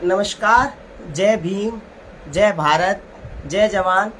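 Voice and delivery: deliberate public speech in measured phrases; political address. Real, not acted. Politician answering rumours about her ticket, formal public address. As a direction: address the viewers firmly, pausing between phrases.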